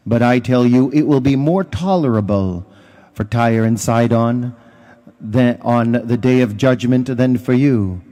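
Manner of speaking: solemn scripture proclamation; Gospel reading. Acted. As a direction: read it like Mass, declaiming.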